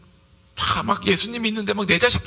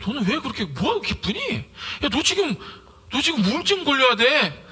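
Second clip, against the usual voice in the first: mildly incredulous, pitch swinging up; acted bafflement; 4 semitones higher than usual. Friend to someone happy in hardship, acted bafflement. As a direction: question it in mock disbelief.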